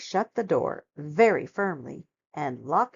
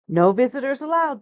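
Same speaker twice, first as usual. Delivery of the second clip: gruff bear; 5 semitones higher, 6 dB louder, faster than usual. Acted. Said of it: "Bear said".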